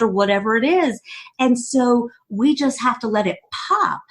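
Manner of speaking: usual speaking voice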